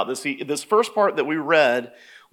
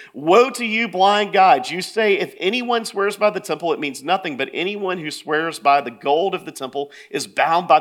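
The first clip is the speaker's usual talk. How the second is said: in-their-face rebuke; 2 semitones higher, 3 dB louder than usual. Acted. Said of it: "Jesus gets in their face".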